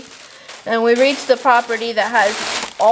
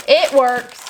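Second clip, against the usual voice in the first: It works said louder, stress on It; louder satisfied It works; pleased; 2 semitones higher, 4 dB louder than usual. Shown as a demonstration. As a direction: announce It works with relief.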